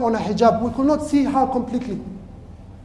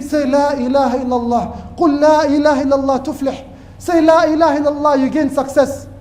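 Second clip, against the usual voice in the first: urgent plea; 3 semitones higher, 4 dB louder than usual. Retold or imitated. Urging a dying man to recite.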